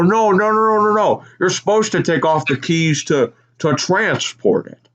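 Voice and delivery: high, rapid protest; insistent no. Retold or imitated. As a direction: wave off a wrong idea. Speaker voicing himself insisting.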